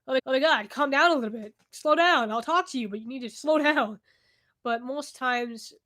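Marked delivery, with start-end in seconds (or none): 0.0-4.0 louder, pleading to calm down; telling voices to slow down. Retold or imitated. Her answer to the voices, louder and half laughing. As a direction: raise the voice to hush an overeager crowd. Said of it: "And it's just like".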